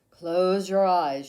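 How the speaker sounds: a hint of a calm therapist; therapist's soothing command. A narrator's reading. Therapist tells Camilla to relax, slow and soothing. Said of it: "she said".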